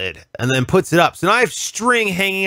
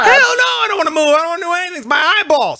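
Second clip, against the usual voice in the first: excited protest; 13 semitones higher, 3 dB louder, faster than usual. Real, not acted. Emphatic agreement, high-pitched excitement.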